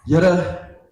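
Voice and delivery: put-on loud, high little boy's prayer in Afrikaans; child praying for rain. Four-year-old Johnny praying aloud for rain at cell group. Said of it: "In Afrikaans said".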